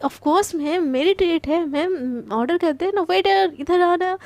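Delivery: slow, swaggering show-off delivery; a light touch of flashy swagger; stylish showing off. Acted. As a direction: act like a big shot treating her boss. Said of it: "एकदम stylish वे में बोलती है".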